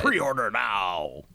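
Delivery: low, long-drawn advert sign-off; mock hype announcer. Co-host closing a spoof fart-episode ad, hammed-up announcer. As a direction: draw out the sales tagline.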